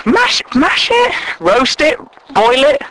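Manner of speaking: slow, very high disbelieving question; can't believe what he's hearing; incredulous. Acted. Stranger told to mash potatoes, incredulous.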